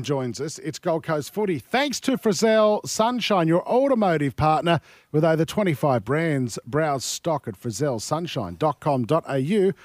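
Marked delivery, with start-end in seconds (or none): 1.6-9.7 sponsor read. Acted. Reads the sponsor ad.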